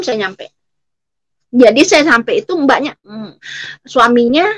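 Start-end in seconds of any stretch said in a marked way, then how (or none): none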